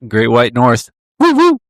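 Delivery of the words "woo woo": mock cheer. Cheering for Canada.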